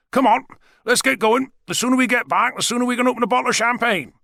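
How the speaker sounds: a father ready to pop the champagne; jolly father. Acted. Father urging family home.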